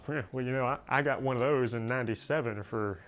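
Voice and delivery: lightly voiced smug older gun owner bragging; a hint of a gloating old-timer; smug old collector. Mimicking an older collector bragging about cheap rifles, lightly smug. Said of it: "older people love to flaunt".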